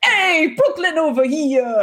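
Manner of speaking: put-on Newsies-style Brooklyn newsboy accent; newsboy yelling headlines. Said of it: "a fucking Newsies accent".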